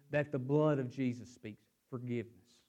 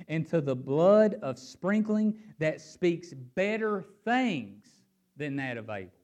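raised, emphatic Bible reading; scripture reading; 2 semitones higher, 4 dB louder than usual. Acted. Preacher reading Hebrews to the congregation, emphatic scripture reading. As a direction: read the verse out with force. Reads scripture aloud with force.

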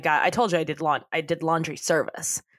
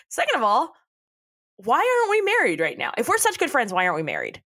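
mock indignant Mitch; 7 semitones higher than usual. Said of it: "And Mitch says".

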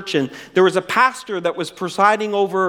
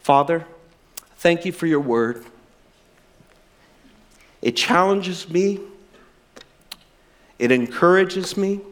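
closing prayer. Real, not acted. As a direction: pray from the heart before communion.

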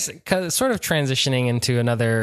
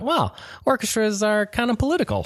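inner realization; 10 semitones higher than usual. Retold or imitated. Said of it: "I thought".

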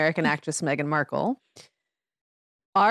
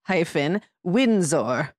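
slow, stately mock British English accent; mock proper British accent; much slower than usual. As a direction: announce the royal name in a hammed-up posh British accent. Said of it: "which you need to say with a very proper accent".

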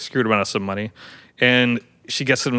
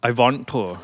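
put-on German accent. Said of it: "like German".

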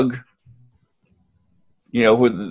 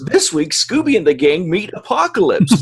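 higher-pitched cartoon teaser voice; cartoon episode announcer; 5 semitones higher than usual. Host pitches an imagined Scooby crossover, mock announcer. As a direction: announce this week's episode with showy intonation. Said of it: "in my head, it's".

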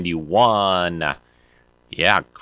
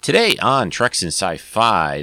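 announcer voice; 5 semitones higher, 4 dB louder than usual. Shown as a demonstration. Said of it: "Get the voice going".

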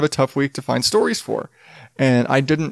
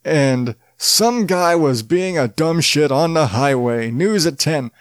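fighting game announcer; slower than usual. Shown as a demonstration. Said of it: "turn on announcer voice and read the news".

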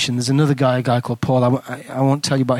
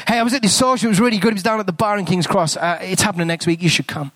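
upbeat invitation; 3 semitones higher, faster than usual. Acted. Acting out inviting a friend.

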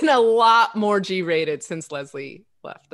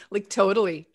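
put-on light, laughing California surfer accent; California surfer bro. Telling him what to add, mock California surfer accent. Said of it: "nineties surfer bro".

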